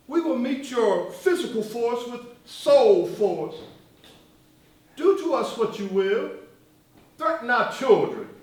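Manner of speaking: measured speech with swelling, falling cadences; Martin's oratory. Acted. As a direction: quote it like a speech, drawing out the refrains. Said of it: "Did you say that, Martin?".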